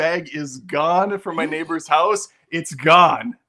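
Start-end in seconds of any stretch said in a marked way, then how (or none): 0.0-2.3 big announcement. Acted. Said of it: "I have a big announcement".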